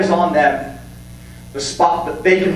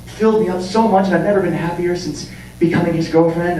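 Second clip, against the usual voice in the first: mock gushing girlfriend. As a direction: swoon over the boyfriend, mockingly. Parodying a boyfriend-obsessed girlfriend.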